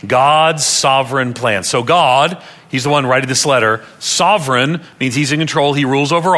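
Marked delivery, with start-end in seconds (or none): 0.0-1.7 slow, evenly spaced words for group reading; read aloud together. Shown as a demonstration. Preacher leading the congregation in reading aloud, slow and deliberate. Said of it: "One more time".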